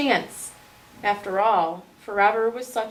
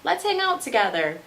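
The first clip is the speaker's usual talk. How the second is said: a touch higher, small squeaky voice; peeping mouse; 4 semitones higher than usual. Acted. Mouse reassures the scared lion, lightly higher peep.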